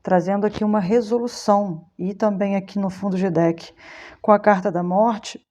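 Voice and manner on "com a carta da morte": hiccuping mid-sentence; talking through hiccups. Real, not acted. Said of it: "desculpa, eu tô com soluço".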